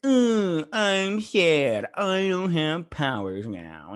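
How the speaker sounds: high, whimpering mock whine of a scared boy; whiny teen. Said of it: "Oh, you're such a whiny little asshole".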